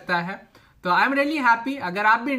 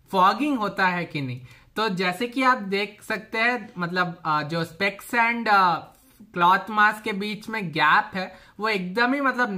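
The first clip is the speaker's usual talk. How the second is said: muffled by cloth mask; speaking behind fabric covering; through a face mask. Real, not acted. Seen 3: Cloth mask covers nose and mouth throughout; unmasked in references.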